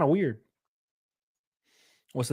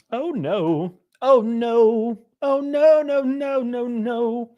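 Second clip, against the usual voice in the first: mock dismay; 7 semitones higher, much slower than usual. Real, not acted. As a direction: wail no, no, no as the joke lands. Reacting to embarrassing chat title.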